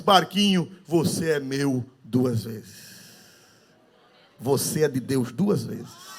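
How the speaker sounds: put-on low, slow, hushed tender child's words; tender to the boat. Boy holding his boat again, slow and tender. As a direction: murmur it lovingly to the toy. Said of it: "ele disse".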